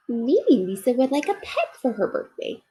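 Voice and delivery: a small toy bear fretting to himself; little bear Corduroy. Acted. Corduroy sees a dog.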